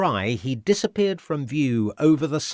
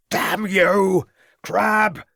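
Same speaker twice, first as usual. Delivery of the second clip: much higher, louder full shout; 9 semitones higher, 6 dB louder, much slower than usual. A narrator's reading. Inspector shouts to constable as villain charges, loud. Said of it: "shouted Ravenscroft".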